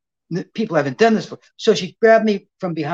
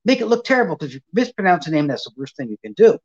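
higher, a touch of mock panic; anxious worry; 4 semitones higher than usual. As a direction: fret over the name. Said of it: "She said".

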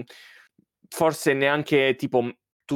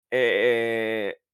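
choking on saliva. Real, not acted. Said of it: "Stavo soffocando".

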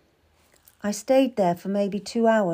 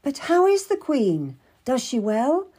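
higher, urgent pleading; anxious cry; 7 semitones higher, 3 dB louder than usual. A narrator's reading. Girl begs Mistress Stab to see the Queen, urgent cry. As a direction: plead to be let through, voice lifted. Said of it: "I cried".

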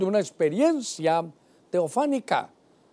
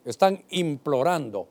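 slow emphasis; 2 semitones lower than usual. Shown as a demonstration. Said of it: "es súplica, es un favor".

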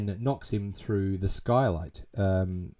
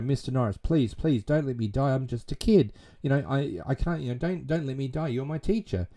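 higher-pitched imitation of begging; retold pleading; 4 semitones higher than usual. Pupil begs teacher not to let him die, mock pleading. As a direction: plead lightly, as if voicing a kid. Voices Peter begging for his life.

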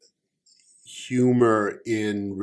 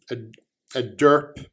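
stammering with a laugh; 2 semitones higher than usual. Acted. Omen stammers a name.

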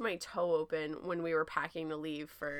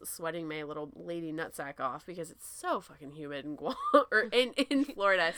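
tipsy, laughing mid-sentence; 3 semitones lower than usual. Real, not acted. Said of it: "Sorry, I'm a little tipsy".

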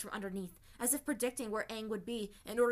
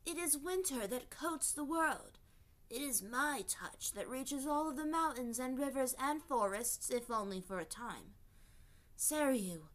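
ice spirit voice; 3 semitones higher than usual. Acted. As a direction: speak like winter itself, slowly. Sedna the ice spirit speaks.

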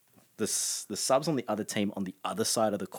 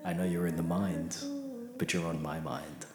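late night radio DJ; 2 semitones lower, 4 dB quieter than usual. Retold or imitated. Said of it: "Pure improv".

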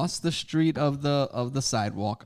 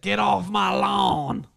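put-on slow, loud, high shouted old-timer; mocking the cranky neighbour, slow and loud; grumpy old man; 7 semitones higher, 5 dB louder, much slower than usual. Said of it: "old school dudes that".

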